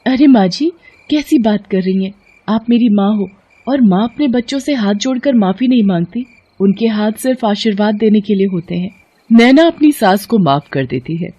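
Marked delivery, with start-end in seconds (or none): 0.1-8.9 high, gentle character voice; high-pitched, earnest reassurance; forgiving daughter-in-law. Acted. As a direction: comfort her in a high, tender voice.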